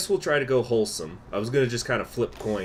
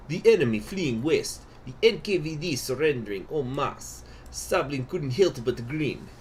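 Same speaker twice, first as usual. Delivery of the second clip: put-on Russian accent; 2 semitones higher than usual. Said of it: "my Russian accent".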